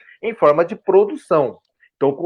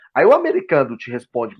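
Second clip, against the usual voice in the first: ordinary delivery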